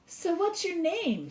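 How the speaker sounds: a small girl's voice, lightly played; shy girl asking. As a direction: ask the tree hopefully like a little girl. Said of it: "Sylvia asked the tree".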